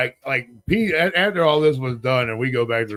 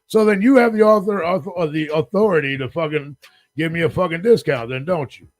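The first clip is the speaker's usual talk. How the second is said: indignant demand; 3 semitones higher than usual. Retold or imitated. Guest pressing desk clerk for a discount, indignant. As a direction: press the point as an acted argument.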